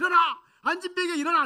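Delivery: forceful, very loud, high-pitched, commanding proclamation. Retelling the pastor commanding the lame man to rise: loud proclamation. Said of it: "막 선포합니다".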